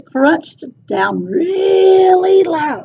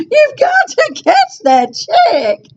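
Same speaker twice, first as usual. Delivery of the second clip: higher, laughing call; 13 semitones higher than usual. A narrator's reading. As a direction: laugh while calling out. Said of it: "laughed his friends".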